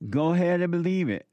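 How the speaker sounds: fired-up preacher taunting doubters; heated challenge. Real, not acted. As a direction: throw the dare at them with rising heat. Preacher challenging congregation, rising heat.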